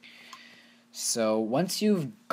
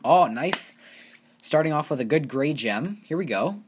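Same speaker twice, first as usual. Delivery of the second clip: excited; 6 semitones higher, 7 dB louder than usual. Real, not acted. Reacting to a good loot drop.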